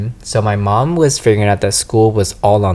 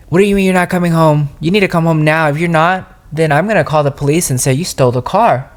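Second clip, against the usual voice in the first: raised-pitch imitation of a yelling dad; mock angry yell; 5 semitones higher, faster than usual. Dad threatening over the phone, imitated angry yelling. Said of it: "yelling on his top of his lung".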